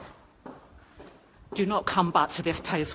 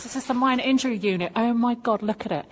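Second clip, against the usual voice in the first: louder, indignant outburst at the empty ward; real outrage spilling out, fast at first; outraged; 3 semitones higher, 4 dB louder than usual. Real, not acted.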